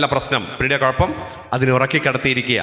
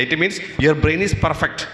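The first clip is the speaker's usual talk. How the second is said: very slow, every word weighted, stress on means; slow emphatic refrain; much slower than usual. Acted. Teacher stressing the key line to students, slow and weighty. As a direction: drive home "It means your brain is perfect." word by word.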